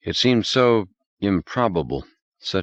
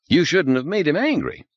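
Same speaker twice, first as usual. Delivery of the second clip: high, anxious plea; pleading; 11 semitones higher than usual. Acted. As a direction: beg him to take it back. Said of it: "He was almost pleading".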